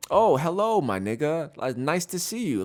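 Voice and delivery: high, cheery fake-friendly hello; mock sweet greeting. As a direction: sing it out like a sugary greeting. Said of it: "they're not saying".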